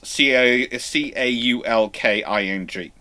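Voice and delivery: letters spelled slowly one by one; slow spelling out. Shown as a demonstration. Teacher spelling the word slowly for students. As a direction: spell it out for the notes. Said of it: "I do it when I'm teaching".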